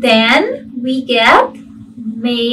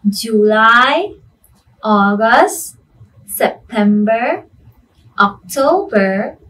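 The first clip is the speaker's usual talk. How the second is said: sing song rote recitation. Shown as a demonstration. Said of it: "I want you to say it with me".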